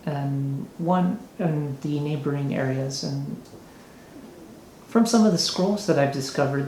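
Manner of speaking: a hint of a giddy, scheming noble offering a job; giddy mayor. Mayor offers adventurers a task, lightly flamboyant voice.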